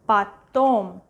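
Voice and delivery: "потом" said pa-TOM; "потом" with a short A, then stressed TOM; stress on second syllable. Shown as a demonstration. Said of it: "second one".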